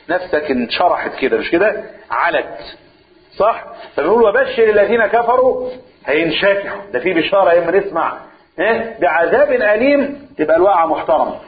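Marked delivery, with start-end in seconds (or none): 4.2-5.7 mock good news. Shown as a demonstration. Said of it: "بأسلوب فيه تهكم وسخرية". 9.0-10.3 sarcastic punchline. Shown as a demonstration. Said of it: "بأسلوب فيه تهكم وسخرية".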